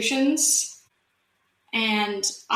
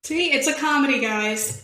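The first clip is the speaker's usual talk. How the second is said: loud protest; 4 semitones higher, 5 dB louder than usual. Real, not acted. Defending the scene to class.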